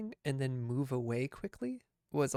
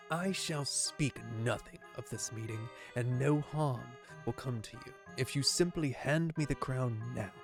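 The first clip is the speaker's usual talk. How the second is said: gravelly voice. Acted. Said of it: "Gravelly voice got me".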